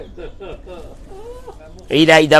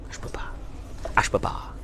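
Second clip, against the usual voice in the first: despairing parent; 15 dB quieter than usual. Acted.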